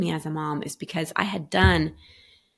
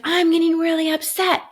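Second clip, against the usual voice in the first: put-on high, louder little-girl voice; imitating her toddler; 10 semitones higher, 5 dB louder than usual. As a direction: play the two-year-old naming her feelings. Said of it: "she's like".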